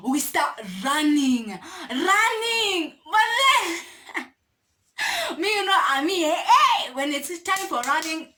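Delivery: running story through laughter; laughing. Real, not acted. Telling viewers about the escape, laughing.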